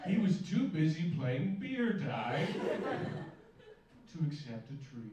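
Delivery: loud slow indignant rant. Real, not acted.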